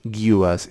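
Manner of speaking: "guous" said alone as "gyoo-us"; the tricky "guous" syllable by itself; isolated syllable. Shown as a demonstration. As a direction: pull out "guous" on its own. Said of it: "It's this guous that trips me up".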